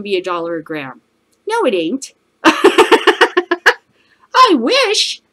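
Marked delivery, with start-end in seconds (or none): 2.3-5.3 high, loud laugh through "I wish". Real, not acted. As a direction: burst out laughing at the idea. Laughing at dollar-a-gram idea.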